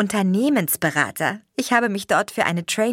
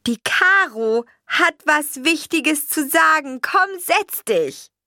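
high, slow, louder coaxing; excited mother; 12 semitones higher, 5 dB louder, slower than usual. A narrator's reading. Mother urging grandma to sit down, eager high voice. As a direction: urge grandma to sit, bursting with news.

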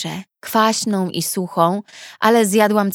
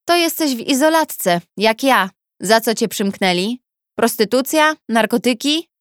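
brash cellmate questioning; 3 semitones higher than usual. Acted. Hawa questions the newcomer.

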